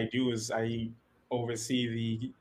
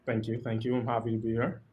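far away. Real, not acted. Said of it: "You sound so far away".

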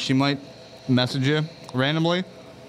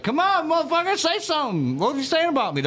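high-pitched mock demand; retold angry challenge; 13 semitones higher than usual. Retelling how he challenged Mike in the group chat, pitched high. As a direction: push him to say it to your face. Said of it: "And I was like".

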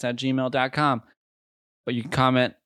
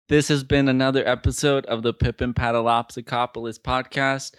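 mic pops on the P sounds; hard P bursts into the mic; popping p sounds. Real, not acted. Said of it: "I'm sorry for the popping".

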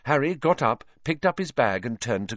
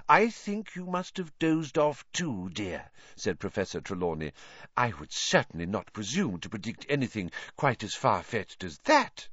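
dismissive seer voice; 4 dB quieter than usual. Acted. Trelawney dismissive.

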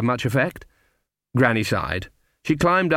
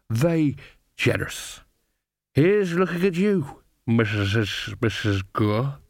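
slurred, wandering tipsy toast; drunken coachman. Acted. Coachman toasting his hostess, slurred and drunk. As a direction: toast her, stumbling over the name.

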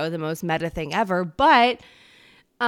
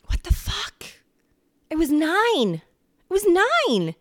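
high, loud embarrassed disbelief; embarrassed squeal; 10 semitones higher, 5 dB louder, slower than usual. Real, not acted. Vlogger mortified at her childhood self, squealing high. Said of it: "extremely embarrassed because".

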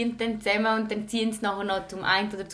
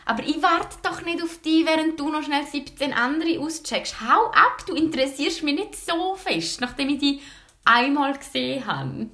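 higher, sharp brush-off; indignant; 3 semitones higher than usual. Retold or imitated. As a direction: tell him off, fed up. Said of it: "wenn er sich so verhalten würde gegen mich".

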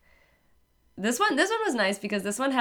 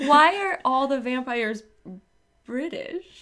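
higher-pitched mock bafflement; baffled question; 6 semitones higher than usual. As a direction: act out puzzled disbelief, voice lifting at the end. Re-enacting their baffled reaction.

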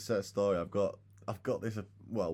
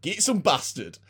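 coworker's catchphrase; 10 semitones higher, 9 dB louder, slower than usual. Retold or imitated. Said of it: "and he just went".

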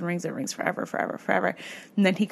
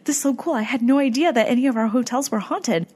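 higher, bubbly mock gush; excited gushing; 5 semitones higher than usual. Clerk delighted to learn of the haunting, in imitated excited gushing. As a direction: imitate her thrilled, pitch up. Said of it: "she was getting so excited".

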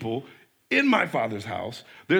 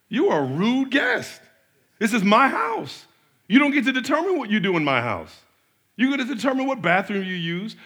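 indignant host scolding; 4 semitones higher than usual. Retold or imitated. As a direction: lay down the law like a fed-up parent. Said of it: "It's like I'm talking to my kids".

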